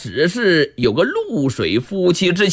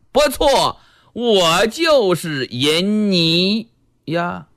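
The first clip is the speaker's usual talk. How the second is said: lightly voiced coy nun, slow and drawn out; a hint of a shameless flirt owning it; slow, teasing nun; sly nun voice; slower than usual. Jingxuan, a lewd nun, flirts.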